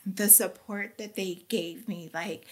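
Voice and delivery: holding back tears while apologizing; starting to cry. Real, not acted. Woman tearing up as she tells her Bible study friend, breaking voice. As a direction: voice welling up with tears, a small laugh at the end. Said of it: "and I'm gonna cry".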